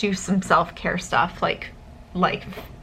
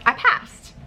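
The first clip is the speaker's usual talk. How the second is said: excited; 7 semitones higher than usual. Real, not acted. Student celebrating passing the test, joyful cry. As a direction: let the relief burst out. Repeating the exam result, louder.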